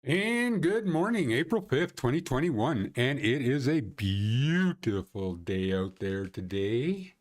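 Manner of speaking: upbeat weather presenter intro; show host opening. Acted. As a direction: open the morning show like a presenter.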